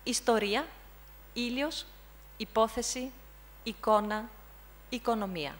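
"Historia, ήλιος, υπόθεση, εικόνα, οικονομία" word by word in Greek; "Historia, ήλιος, υπόθεση, εικόνα, οικονομία" as a teacher's careful list; model pronunciation. Shown as a demonstration. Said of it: "So I repeat".

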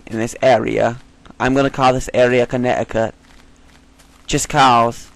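badly faked British accent; attempted British accent. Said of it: "try to sound British".

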